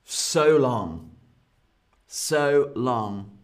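dramatic farewell. Shown as a demonstration. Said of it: "is quite dramatic".

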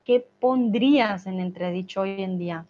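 "pondrías" with a clear N, not "podrías"; corrected word. Shown as a demonstration. Teacher correcting the typo "podrías" to "pondrías". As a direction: stress the N in "pondrías". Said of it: "The N is very important".

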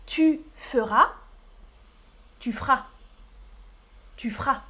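"feras" squeezed to "f'ra"; "feras" the quick Paris way; Parisian pronunciation. Shown as a demonstration. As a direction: drop the e in "feras". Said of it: "C'est comme ça qu'on prononce".

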